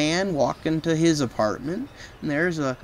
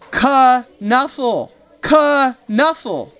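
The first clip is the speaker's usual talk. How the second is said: insistent call; 8 semitones higher, 6 dB louder, much slower than usual. Acted. Trixie claiming her bunny.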